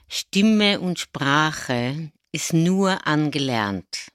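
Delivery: very slow, each word weighed out; slow emphatic statement. Shown as a demonstration. Coach stressing the key sentence to listeners, slow and deliberate. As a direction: let the key sentence sink in slowly. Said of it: "muss man sich erstmal auf der Zunge zergehen lassen".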